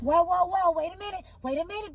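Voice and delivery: jumping in to halt a shocking story; startled stop. Retold or imitated. Mother-in-law hearing shocking news.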